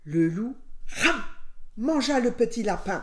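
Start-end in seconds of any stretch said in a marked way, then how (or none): 0.9-1.2 short, loud chomping "ram"; one sudden, high gobble noise; gobbling noise. A narrator's reading. Narrator imitates the wolf eating the little rabbit, gobbling noise.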